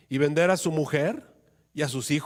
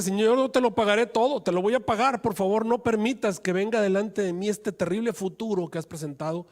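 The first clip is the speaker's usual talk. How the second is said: louder, higher desperate begging; desperate plea; 5 semitones higher, 4 dB louder than usual. Acted. Debtor begs the king to spare him, loud pleading. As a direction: cry out to be spared. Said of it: "este hombre le decía".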